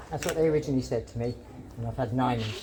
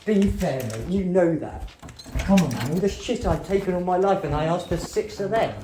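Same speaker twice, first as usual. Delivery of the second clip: raised, heated pleading at the doctor; louder, pushing back hard, frustrated; angry protest; 2 semitones higher, 4 dB louder than usual. Real, not acted. Patient arguing with doctor over sleeping tablets, raised and heated.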